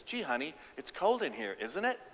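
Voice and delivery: soft, tentative hint; timid hinting. Shown as a demonstration. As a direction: drop a shy hint instead of asking. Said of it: "That's weak force".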